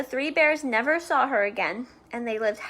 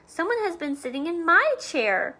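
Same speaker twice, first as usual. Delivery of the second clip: a bit higher mother bear; lightly voiced mama bear, higher; middle-sized voice; 5 semitones higher than usual. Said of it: "in her middle-sized voice".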